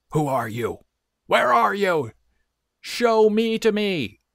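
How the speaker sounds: very shrill, very loud, high rising shout. The gargoyle, in bed, calls out to a faint voice from somewhere, shouted. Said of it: "shouted the gargoyle".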